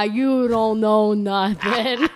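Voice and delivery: slow, drawn-out brush-off; dismissive. Acted. Restaurant owner Don answering his doubters, dismissive and drawn out. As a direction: drag each word out stubbornly.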